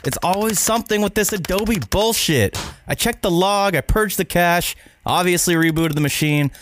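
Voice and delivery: frustrated rant. Acted. Editor freaking out over error.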